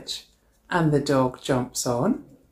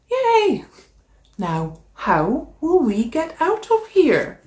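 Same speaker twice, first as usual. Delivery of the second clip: cheering; 11 semitones higher, slower than usual. Acted. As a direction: cheer with the whole gang. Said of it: "the animals cheer".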